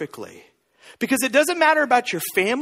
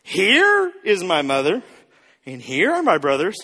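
put-on drunk Jesus; 4 semitones lower than usual. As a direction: draw out the first word like a mild drunk. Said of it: "It's almost like drunk Jesus".

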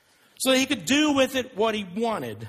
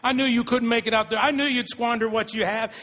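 mock scornful father; 2 semitones higher than usual. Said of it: "He doesn't say".

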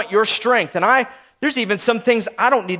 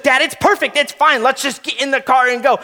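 put-on higher, lightly impatient kid; pitched-up child brushing dad off; imitating four-year-old; 4 semitones higher than usual. Daughter wanting to leave in the car, mock-impatient. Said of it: "and she's like".

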